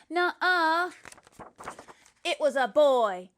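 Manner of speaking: loud, insistent nuh-uh; boy argues the baby is a boy; loud denial. Acted. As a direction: shout the girl down. Argument over baby.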